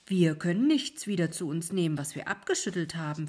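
wisps answer back; a cheeky reply from the lights; lightly voiced wisps. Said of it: "versetzten jene".

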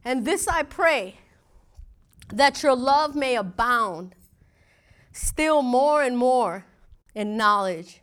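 slow, measured Bible reading; scripture reading. Acted. Preacher reading Philippians to congregation, slow and solemn. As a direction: read each phrase deliberately, letting it land.

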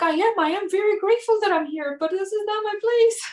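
very high, pleading retold voice; mock distraught protest. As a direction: imitate a tearful, overwhelmed protest. Retold tearful protest to her mentor.

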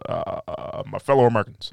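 measured politician impression; Barack Obama. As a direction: address the nation haltingly. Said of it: "Barack Obama".

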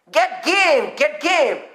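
"game" punched with a high rise and fall; stress on GAME. Acted. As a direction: hit "game" firmly both times. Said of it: "there's an emphasis on the word game".

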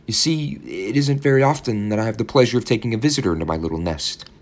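put-on high, sweet, fussy old landlady; landlady's voice. A narrator's reading. Landlady welcoming young Billy, high and sugary. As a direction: coo it like a doting landlady.

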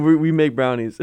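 normal talking voice

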